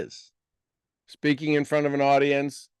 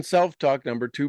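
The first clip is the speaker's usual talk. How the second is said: ordinary delivery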